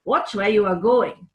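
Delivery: loud angry squirrel; angry shout. Acted. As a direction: shout it at the clumsy girl. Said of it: "shouted angrily".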